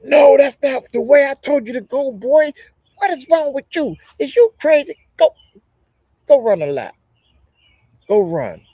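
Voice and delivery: high, loud, furious coach bawling out a player; coach yelling. Retold or imitated. Coach yelling at his players during practice, loud high scolding. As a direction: yell like a drill coach at practice. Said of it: "the coach yelling at them".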